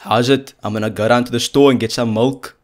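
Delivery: emphatic South African greeting; South African accent. Shown as a demonstration. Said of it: "the main one I think that you wanna go for".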